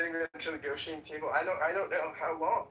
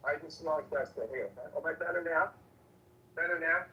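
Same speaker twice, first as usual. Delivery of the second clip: muffled. Real, not acted. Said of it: "Not much".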